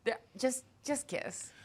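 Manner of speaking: soft exasperated plea; pleading hush. Retold or imitated. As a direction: murmur it at the screen. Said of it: "And I'm always like".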